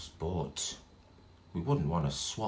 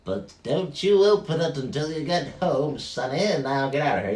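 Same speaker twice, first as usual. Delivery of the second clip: grumpy shopkeeper; 6 semitones higher, 5 dB louder than usual. Acted. Grumpy shopkeeper shooing them.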